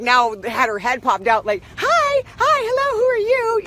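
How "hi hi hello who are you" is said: very high squeaky puppy greeting; excited dog voice. Pretend. Bella the dog popping out of the bag, excited squeaky voice. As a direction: play the dog, thrilled to meet everyone. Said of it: "she's all excited".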